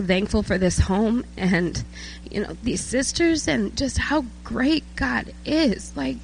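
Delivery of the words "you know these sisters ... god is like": higher, moved voice near tears; emotional. Real, not acted. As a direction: testify while fighting back emotion. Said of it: "I'm emotional 'cause".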